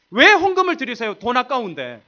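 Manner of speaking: high, loud mock challenge; teasing shout. Real, not acted. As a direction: needle them loudly about giving. Rhetorical jab at congregation. (헌금을 두고 높고 크게 놀리듯 묻기)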